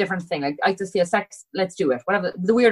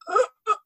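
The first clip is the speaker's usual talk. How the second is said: mock gasp. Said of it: "And I'm like".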